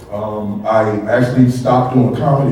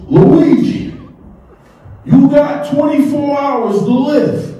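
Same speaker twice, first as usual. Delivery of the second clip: doctor delivering news; 12 semitones higher, slower than usual. Retold or imitated. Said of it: "He goes".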